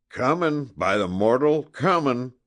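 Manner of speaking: high, loud roar from the bushes; roaring call. A narrator's reading. Scout rushing to Sadie's rescue, roaring loudly. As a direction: bellow it as you charge in. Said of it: "roared a hoarse voice".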